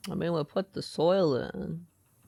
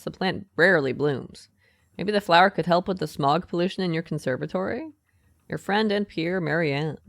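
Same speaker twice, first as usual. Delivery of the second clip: louder, read out like a letter from a friend; 4 dB louder than usual. Acted. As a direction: present the postcard as a spoken letter. Reads the postcard aloud.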